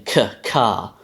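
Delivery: k said as a back velar stop. Shown as a demonstration. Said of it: "this is a k sound".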